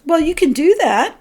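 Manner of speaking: acted "well, if you must"; permissive soul voice. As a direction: voice an inner guide allowing it with reservations. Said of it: "my soul may also say to me".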